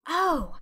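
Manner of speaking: long drawn-in breath; breathy gasp. A narrator's reading. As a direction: gasp in with delight. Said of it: "with a long indrawing of breath".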